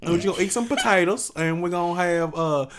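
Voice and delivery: chatty mock-Southern family phone call; Southern phone twang. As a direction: tease with a countrified Southern accent. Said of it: "when I get on the phone with my family".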